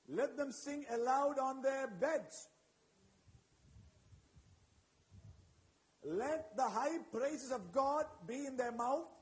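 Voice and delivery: loud, slow proclaiming of the psalm; preacher thunders the psalm, slow and loud; preaching scripture. Acted. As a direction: declare each line like a battle cry. Reads scripture with force.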